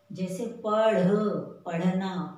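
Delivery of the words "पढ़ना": पढ़ना with a clear flapped ढ़; clear retroflex flap. Shown as a demonstration. Teacher to children: careful पढ़ना. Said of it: "पढ़ना नहीं बोलते".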